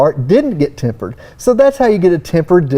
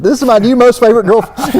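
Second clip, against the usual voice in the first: put-on teen kid gushing; 5 semitones higher, 3 dB louder, faster than usual. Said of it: "my kids when they're in high school".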